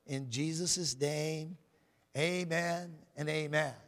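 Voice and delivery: measured, earnest prayer to God. Real, not acted. Opens by leading a prayer.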